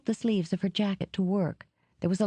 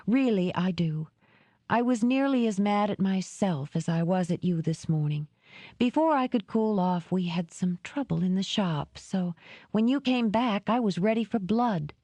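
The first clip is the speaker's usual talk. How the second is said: lightly higher woman explaining her temper; a hint of Dora; 4 semitones higher than usual. Woman explaining to Jed why she was angry, lightly higher. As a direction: admit you were ready for a fight.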